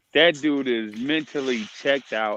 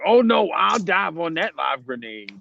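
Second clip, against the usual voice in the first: mocking friend impression; 6 semitones higher than usual. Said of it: "And Cody Kev is like".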